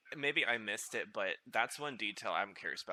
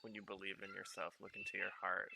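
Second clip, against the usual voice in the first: Luna quote; 2 semitones lower, 5 dB quieter than usual. Retold or imitated. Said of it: "what Luna said".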